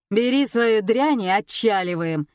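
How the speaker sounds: loud, bossy order; распоряжение. A narrator's reading. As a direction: order her to get moving. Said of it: "распорядился Лёша". (командным тоном)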